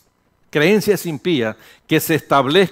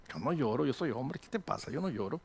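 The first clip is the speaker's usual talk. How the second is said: imitating himself; 16 dB quieter than usual. Se imita a sí mismo.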